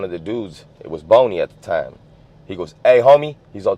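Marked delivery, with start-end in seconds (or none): 2.8-3.4 louder, higher imitated hail; retold call-out. Rival calling out to kid walking away, retold call-out. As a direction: hail him from behind, pitched up.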